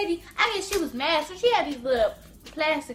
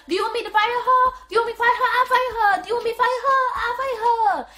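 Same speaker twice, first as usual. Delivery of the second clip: mock panicked manager, louder and higher; frantic manager; 7 semitones higher, 5 dB louder, faster than usual. Manager asking the mom whether to fire the worker, higher and louder. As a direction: play the flustered manager offering to fire her. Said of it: "she was like".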